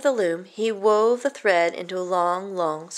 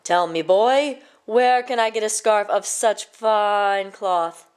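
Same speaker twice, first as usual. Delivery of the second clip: king's voice; 4 dB louder, slower than usual. Acted. King questions the boy.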